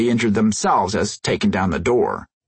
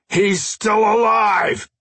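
panicked shout; 11 semitones higher, much slower than usual. Acted. Panicked shout at waking corpse.

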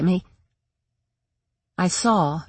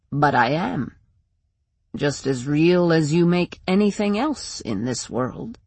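sinister Shadow Man. Acted. Shadow Man figure taunts narrator.

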